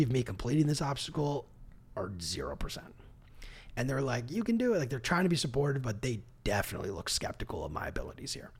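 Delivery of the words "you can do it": high but weaker, doubtful encouragement; half-hearted cheer. Retold or imitated. Imitating the staff doubting he can finish the monkey bars, a half-hearted high cheer. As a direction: cheer without believing it.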